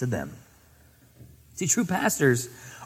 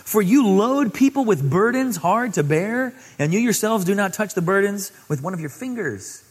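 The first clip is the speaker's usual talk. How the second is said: loud, higher proclaiming woe; louder prophetic denunciation; Jesus' woe; 6 semitones higher, 6 dB louder than usual. Acted. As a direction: declare it with force. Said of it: "And Jesus said".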